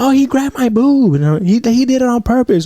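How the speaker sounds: high mock-girly complaining voice; mimicking the girl. Imitating the girl complaining to the coach, high and whiny. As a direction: squeak it out like an offended girl.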